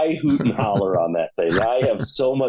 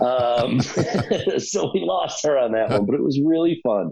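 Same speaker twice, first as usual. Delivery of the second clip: laughing; 4 semitones higher than usual. Real, not acted. Laughing about a lost aunt.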